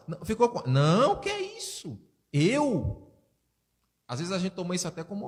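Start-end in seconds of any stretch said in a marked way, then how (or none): 0.7-3.1 offended denial. Acted.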